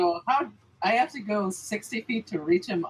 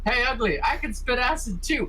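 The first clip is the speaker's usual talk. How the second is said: higher-pitched in-character taunt; goading, raised-pitch heckle; 6 semitones higher than usual. Acted. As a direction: call out a cocky challenge to the enemy. Player acts out taunting the enemy.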